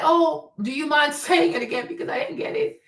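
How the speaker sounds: acted polite request to repeat. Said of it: "So be polite".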